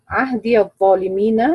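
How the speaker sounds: "عهدي الظالمين" linked as ahdiya-dh-dhaalimiin; fatha on the ya. Shown as a demonstration. Teacher shows the reading, "عهدي الظالمين" with voweled ya. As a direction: open the ya of "عهدي" into "الظالمين" without a break. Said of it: "بفتح الياء وصلا".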